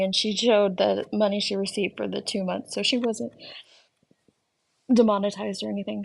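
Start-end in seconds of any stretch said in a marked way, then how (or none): 2.7-6.0 speaking through hiccups. Real, not acted. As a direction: talk while hiccuping. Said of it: "Sorry, I got the hiccups".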